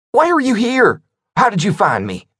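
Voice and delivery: frightened cornered man; panicked. Acted.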